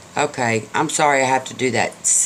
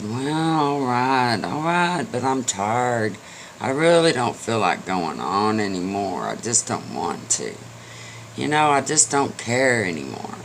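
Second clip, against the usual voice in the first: hopeless tired horse. Acted. Horse gives up, fading.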